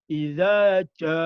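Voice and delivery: iza said as ja the Javanese way; Javanese accent. Shown as a demonstration. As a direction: imitate a Javanese learner saying ja. (logat Jawa medok)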